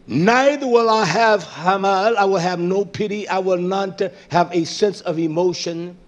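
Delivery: emphatic proclamation of God's words; prophetic preaching. Real, not acted. Preaches at full force.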